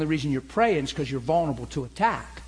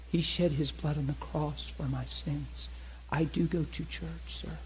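sedated, quiet; 6 dB quieter than usual. Retold or imitated. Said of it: "She's talking real sedated".

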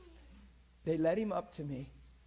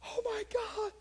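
high, stunned cry of joy; healed woman shrieking, much higher; amazed shriek; 5 dB louder than usual. Retold or imitated. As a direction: squeal it like she just got her sight. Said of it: "And she's going".

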